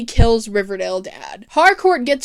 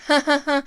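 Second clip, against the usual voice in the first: mock laugh; 5 semitones higher, faster than usual. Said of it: "Riverdale Dad just laughs and goes".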